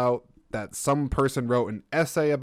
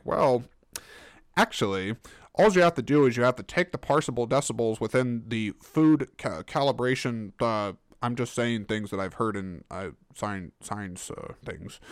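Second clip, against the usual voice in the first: know-it-all scientist voice; lightly voiced smug scientist; scientific voice. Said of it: "This is actually my, uh, scientific voice".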